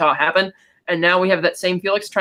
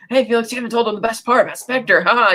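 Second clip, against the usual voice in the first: higher-pitched, eager mock gushing; gushing fanboy; 4 semitones higher than usual. Logan fanboying to Felix over Bond, mock gushing. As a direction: imitate an overexcited fan butting in. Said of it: "very much fanboying over Bond".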